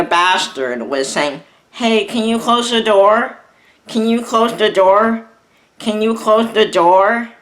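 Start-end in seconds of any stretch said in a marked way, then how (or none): 1.7-7.3 higher, whiny mock repeat; hammed-up whiny voice of the rival; mocking nag. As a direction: mimic the nagging request, sing-song and higher. Mocking the bastard's nagging request.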